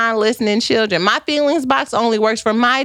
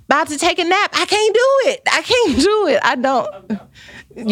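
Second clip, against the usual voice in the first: mock excuse; 5 semitones higher, slower than usual.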